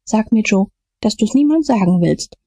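very high, desperate begging; terrified pleading. A narrator's reading. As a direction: beg on your knees, high and frantic. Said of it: "fiel auf die Knie ... hob beschwörend die Hände". (hoch, verzweifelt flehend)

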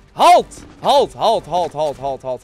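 loud, sharp halt; commanding shout. Real, not acted. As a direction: order him to stop. Seeker orders a player to stop.

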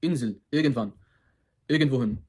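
Insel, irgendwann, irgendwohin, baştaki i ı'ya yakın; doğru Almanca i. Shown as a demonstration. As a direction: INSEL ve irgendwann'ı i-u arası sesle başlat. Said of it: "I ile u'nun sanki arasında". (Almanca telaffuzlu örnek kelimeler)

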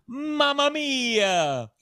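high, long-drawn lament to the heavens; stretched high operatic exclamation; theatrical Italian exclamation. Acted. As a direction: wail it slowly in hammed-up Italian.

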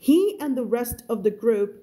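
slow, measured English reading; story read-aloud. Shown as a demonstration. Teacher reading a novel to learners, slow narration. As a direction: read it slowly, word by word, for learners.

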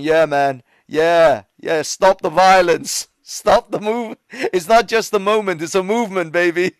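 loud mock protester chanting slogans; rally the crowd as a hammed-up activist; activist virus. Covid virus cheering at a protest, mock rallying cry. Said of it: "covid virus with his fist in the air".

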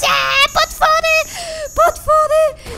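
very high, loud shrieks; terrified screaming. Real, not acted. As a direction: shriek a warning in panic. Monsters appear during distress call.

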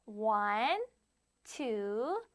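put-on spaced-out counting for children to follow; counting demo. Shown as a demonstration. Teacher reminding children how they counted, counting demo. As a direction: count out one number at a time, with pauses. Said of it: "이런 식으로 셌죠".

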